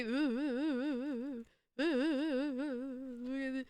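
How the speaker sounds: long string of wobbling oohs; wavering oohs. Shown as a demonstration. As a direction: keep a quavering ghostly ooh going. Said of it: "I would say".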